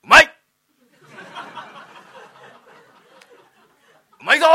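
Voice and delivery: loud theatre call of praise; forced praise shout. Acted. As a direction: yell "bravo" on command. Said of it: "いいから褒めろよ".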